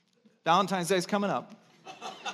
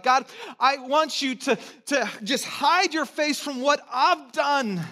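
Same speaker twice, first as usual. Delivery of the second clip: pleading prayer; 9 semitones higher, 6 dB louder, slower than usual. Acted.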